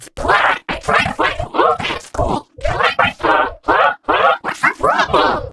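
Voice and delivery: high, strained scream; screaming little brother. Acted. Annoying brother bursts into the room, high scream. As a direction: scream the questions at your sibling. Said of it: "Digital came in my room and screamed".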